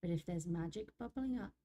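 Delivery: unhurried, wistful nature spirit; story narration. Acted. Reads nature spirit's monologue.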